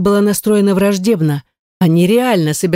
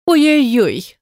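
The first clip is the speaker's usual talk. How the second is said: whiny nasal mock lament, pitched higher; nasal mock wail; 7 semitones higher, slower than usual. Hortensia mocks the captive writer, with a higher nasal mock wail. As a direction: wail through the nose to mock her. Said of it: "гнусаво запричитала Гортензия".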